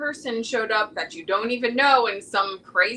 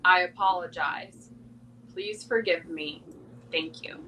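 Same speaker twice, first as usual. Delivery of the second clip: I love you ... Thank you, each phrase given slowly with pauses, fading softer; slower; 3 semitones lower, 4 dB quieter than usual. Shown as a demonstration. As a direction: say the four phrases slowly and gently. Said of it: "Say it again one more time slower".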